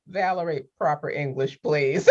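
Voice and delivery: softly imitated mother's correction; a hint of a parent's restrained plea; pleading mom. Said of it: "He would just be like".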